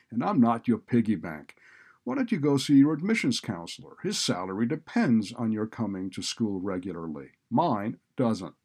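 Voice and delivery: loud, irritated scolding; exasperated dean laying down the law; scornful refusal. A narrator's reading.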